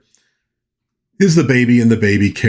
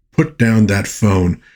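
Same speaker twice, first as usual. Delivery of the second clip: slow firm order; slower than usual. Retold or imitated. Retold quarrel, his repeat.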